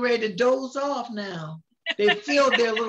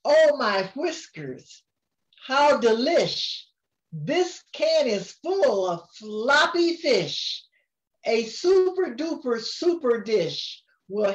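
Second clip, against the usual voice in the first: sing-song storybook reading; rhyming lines read aloud to a grandchild; reading to a child; 2 semitones higher than usual. A narrator's reading. Grandma reads the picture book to her grandchild, sing-song.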